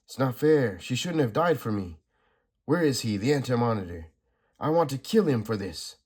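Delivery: mild hammed-up vengeful rage; grieving fury.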